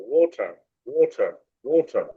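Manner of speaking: ওয়াটার with a rounded অ, slowly; slow, rounded ওয়াটার for the student; correct pronunciation. Shown as a demonstration. Teacher correcting a student's reading. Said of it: "আমরা বলবো".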